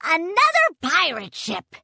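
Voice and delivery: high, loud sailor's shout; a loud, keyed-up sailor; excited cry. Acted. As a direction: cry out in alarm and hope. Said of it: "Salty cried".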